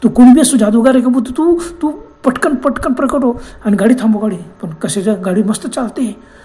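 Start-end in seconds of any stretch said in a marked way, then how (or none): 0.0-4.4 raised, higher-pitched alarmed plea; urgent shout, only moderately loud; acted yelling. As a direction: cry out in alarm, mostly high. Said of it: "तू मोठ्याने ओरडायला".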